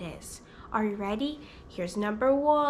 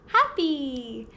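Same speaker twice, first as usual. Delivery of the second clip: smiling, drawn-out word; acted happy; 3 dB louder than usual. Shown as a demonstration. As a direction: beam while saying it. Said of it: "I'm making a happy face".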